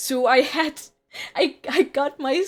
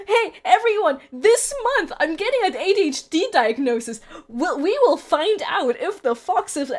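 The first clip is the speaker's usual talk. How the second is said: hyped announcement; 4 semitones higher, 4 dB louder than usual. Acted. Mock announcement to viewers.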